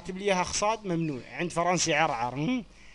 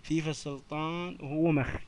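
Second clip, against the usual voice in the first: slow dictation; 2 semitones lower, 5 dB quieter, slower than usual. Shown as a demonstration. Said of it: "كتبها ابو ريحة هذا".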